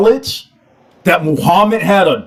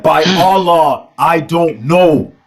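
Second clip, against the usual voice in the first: slow, low hesitant reply; lightly voiced Aisha; slow voicing of Aisha; 3 semitones lower, slower than usual. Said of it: "She said".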